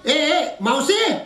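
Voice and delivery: drawn-out, rising summons; calling out. Acted. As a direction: call for someone out of sight. Calling the absent maid. (लांबून हाक मारणे)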